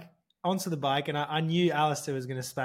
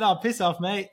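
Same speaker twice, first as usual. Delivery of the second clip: dismissive retort; 6 semitones higher, 4 dB louder than usual. Retold or imitated. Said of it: "I just said".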